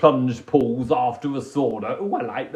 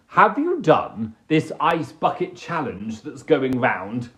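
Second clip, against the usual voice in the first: normal talking voice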